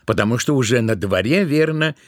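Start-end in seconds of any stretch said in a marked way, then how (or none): none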